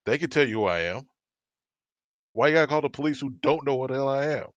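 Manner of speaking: mild mock yell, indignant; heated retort at storytelling volume; retold yelling. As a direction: re-enact telling someone off, voice rising at the end. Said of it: "I just start yelling".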